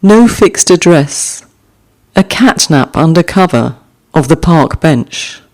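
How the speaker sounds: gentle recital of a short poem; poem reading. Acted. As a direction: let each image settle before the next. Reads haiku aloud twice.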